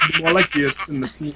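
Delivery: light Norse accent demo; a hint of a Scandinavian lilt. Shown as a demonstration. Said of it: "It'd be more Norse".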